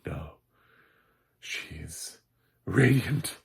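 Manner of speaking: smitten suitor. Retold or imitated. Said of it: "That's sort of what Jonathan feels like".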